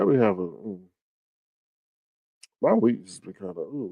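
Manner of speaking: words stretched through a yawn; yawning while talking. Real, not acted. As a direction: talk mid-yawn, drowsy. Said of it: "y'all may hear me yawning".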